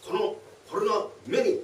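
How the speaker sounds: high, loud protest. Acted. The tenant loudly protesting to the thief. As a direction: shout the complaint.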